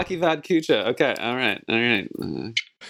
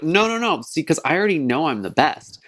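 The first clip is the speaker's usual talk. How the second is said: cocky self-quote; 4 semitones higher than usual. Retold or imitated. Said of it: "I'm like".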